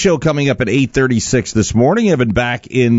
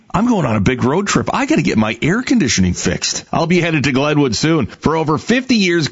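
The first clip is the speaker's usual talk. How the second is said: upbeat host reading a sponsor spot; radio ad read. Acted. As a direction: sell it like a friendly local ad. Host reads sponsor ad live.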